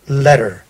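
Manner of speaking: "Letter" with no vowel before the R, lett-r; "Letter" ending in a bare American R; North American letter. Shown as a demonstration. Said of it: "they do not pronounce the E".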